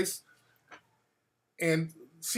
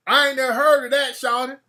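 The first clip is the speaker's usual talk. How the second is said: loud, higher street voice; Atlanta local; 4 semitones higher, 4 dB louder than usual. Retold or imitated. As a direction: brush him off like a local. Local answering in slang.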